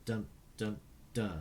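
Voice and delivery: soft spoken rhythm. Shown as a demonstration. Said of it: "In this last bit".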